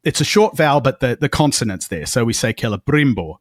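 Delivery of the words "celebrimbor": "Celebrimbor" with the stress on the second syllable, brim; Cel-e-BRIM-bor, stress on brim. Shown as a demonstration. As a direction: say "Celebrimbor" leaning on brim, a short vowel closed by the m. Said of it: "we stress the brim because of the M".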